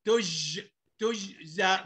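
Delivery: تجزى taken apart at a bounced ج; low, careful تجزى, pausing on the ج; qalqalah demonstration. Shown as a demonstration. Teacher breaking down تجزى, bounced ج. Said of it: "بقلقلها بقول إيه".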